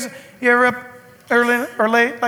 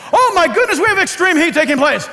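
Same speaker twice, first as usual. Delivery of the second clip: higher, louder laughing mock alarm; 5 semitones higher, 4 dB louder than usual. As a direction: gasp it out in fake horror, laughing. Mocking alarm at heat news.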